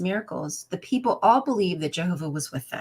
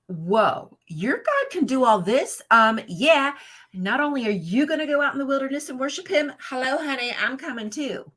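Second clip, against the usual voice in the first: eager Pharaoh; 7 semitones higher, 4 dB louder than usual. Retold or imitated. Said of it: "Pharaoh would have been like".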